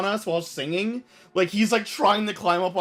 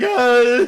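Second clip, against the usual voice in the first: mock sob; 6 semitones higher, 10 dB louder than usual. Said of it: "ugly crying".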